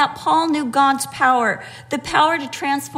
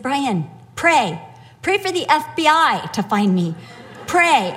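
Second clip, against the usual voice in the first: loud plea. Retold or imitated. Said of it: "I'm saying it really loudly".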